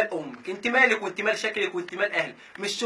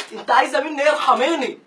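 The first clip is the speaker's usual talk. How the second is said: exasperated plea; 4 semitones higher, 5 dB louder than usual. Acted.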